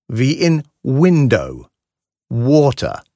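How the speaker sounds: "Window" begins with a short u-like w; "Water." with rounded lips, not a German w; English W. Shown as a demonstration. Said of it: "nichts mit dem deutschen W zu tun".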